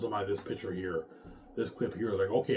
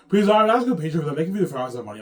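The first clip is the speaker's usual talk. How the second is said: imitating Peter; 5 semitones higher, 8 dB louder, much faster than usual. The speaker voicing Peter's pitch.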